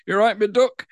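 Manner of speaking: lightly voiced Staffordshire greeting; Stoke accent. Shown as a demonstration. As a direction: greet them like a Stoke local. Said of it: "Staffordshire and Stoke and around there".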